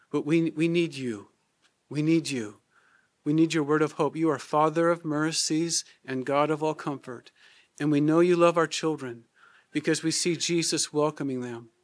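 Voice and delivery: earnest prayer voice; humble spoken prayer. Acted. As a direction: pray aloud to the Father. Leads prayer to Father.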